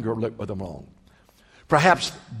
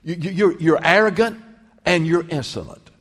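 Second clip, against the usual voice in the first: louder, higher accusing rebuke; scolding older brother; 5 semitones higher, 3 dB louder than usual. Acted. Eliab scolding young David at the battle line, mock angry. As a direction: tear into him like an angry big brother. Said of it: "raked David over the coals".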